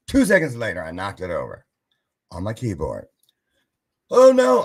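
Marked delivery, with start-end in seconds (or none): 4.1-4.6 loud, high cry of dismay; retelling the spilled wine, a high loud oh no. Retold or imitated. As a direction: react to the spill in horror.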